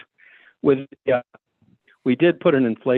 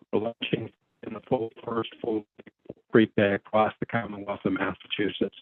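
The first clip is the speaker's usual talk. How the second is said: cutting out; 5 dB quieter than usual. Real, not acted. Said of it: "you are cutting out on our end a little bit".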